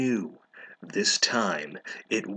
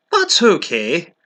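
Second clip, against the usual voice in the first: hammed-up droopy sigh of a line, higher and slow; mock depressed; 9 semitones higher, 8 dB louder, slower than usual. Draco forgives Ebony, hammed-up depressed and slow. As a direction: play it like a sulking goth, dragged out. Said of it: "he said, all depressed".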